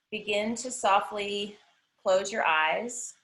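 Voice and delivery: measured meditation voice with long pauses; guided meditation. Acted. Yoga teacher grounding the class before practice, guided meditation. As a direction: guide them gently into the breath.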